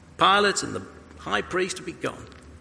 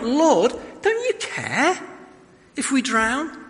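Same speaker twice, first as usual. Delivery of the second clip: high, urgent frightened plea; frantic plea; 7 semitones higher, slower than usual. Retold or imitated. Disciples waking Jesus in the storm, panicked. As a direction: shake him awake in panic.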